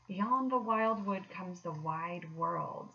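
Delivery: solemn. Acted. Rat grave about wide world.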